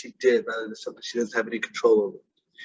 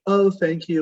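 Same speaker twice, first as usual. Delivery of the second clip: bright, higher "Oh, thank you" with a lift on "Oh"; friendly but done with it; polite thanks; 5 semitones higher, 3 dB louder, slower than usual. Shown as a demonstration. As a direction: brush it off pleasantly, lightly higher. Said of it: "they take the compliment and they keep moving".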